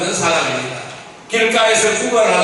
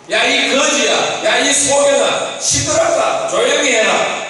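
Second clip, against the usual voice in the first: higher-pitched, half-hearted telling-off; mock scolding; 5 semitones higher than usual. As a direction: act out a crowd lightly scolding a beggar. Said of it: "막 이렇게 꾸짖는 걸".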